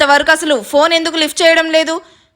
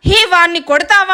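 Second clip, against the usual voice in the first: angry; 5 semitones higher than usual. Acted. Thug angry at the kick.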